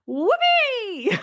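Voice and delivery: high, drawn-out whoop from the crowd; retold yell.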